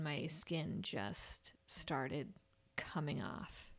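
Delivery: slow, whispered horror; hushed dread. Real, not acted. Telling a friend about her peeling skin in a slow whisper. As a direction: whisper it like a grim secret.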